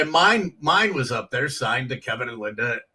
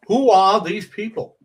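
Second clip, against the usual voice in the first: louder, higher put-on Seinfeld voice; Jerry Seinfeld impression; 6 semitones higher, 6 dB louder than usual. Comic does Seinfeld bit to crack up Judy. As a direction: ask it like Seinfeld, pitched up. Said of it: "do your Jerry Seinfeld".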